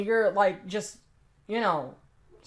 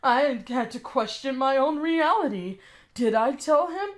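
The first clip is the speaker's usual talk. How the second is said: mocking quote; 3 semitones higher than usual. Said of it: "play the whole".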